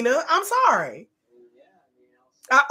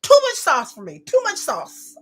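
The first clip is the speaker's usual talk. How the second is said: louder, scolding the screen; mock yell at screen; 3 semitones higher, 5 dB louder than usual. Real, not acted. Vlogger scolding Ashley on screen, mock yell. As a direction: tell her off through the screen.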